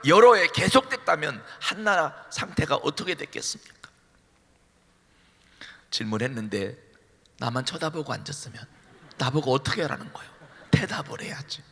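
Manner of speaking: ordinary delivery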